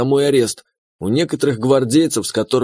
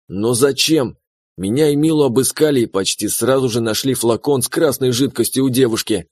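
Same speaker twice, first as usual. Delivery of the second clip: plain reading voice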